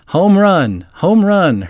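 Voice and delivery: high-pitched crowd cheer, read with restraint; fans shouting. A narrator's reading. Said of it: "her team's fans shouted".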